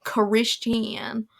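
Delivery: put-on slow, drawn-out Southern accent; light, unhurried Southern accent. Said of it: "I think Southern is Christian".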